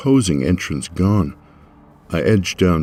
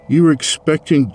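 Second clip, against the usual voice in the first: cut-off quip; 10 semitones higher, 5 dB louder than usual. Acted. Starts retort, cut off.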